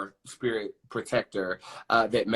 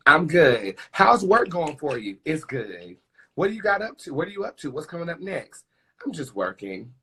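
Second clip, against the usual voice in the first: acted small talk; 4 semitones higher, 4 dB louder than usual.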